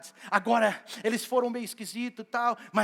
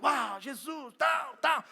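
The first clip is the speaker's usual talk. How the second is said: excited cheer; 4 semitones higher, much slower than usual. Retold or imitated. Disciples cheering Jesus's plan, excited shout. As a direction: cheer like a thrilled crowd. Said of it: "a maioria tava empolgado".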